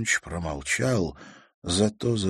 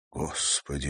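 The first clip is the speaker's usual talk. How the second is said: horrified; 3 semitones lower, 6 dB quieter than usual. A narrator's reading. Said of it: "в ужасе произнесла графиня".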